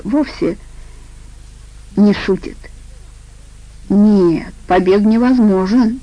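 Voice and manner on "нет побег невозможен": a firm, louder no; a touch of stubborn certainty; firm answer. Acted. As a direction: insist flatly that escape is impossible. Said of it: "твёрдо ответил он".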